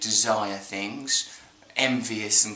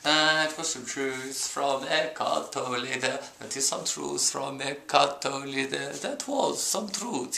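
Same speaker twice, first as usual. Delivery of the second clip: slow Tolle impression; 3 dB quieter, slower than usual. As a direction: stretch every word like a calm guru. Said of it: "He talks like that".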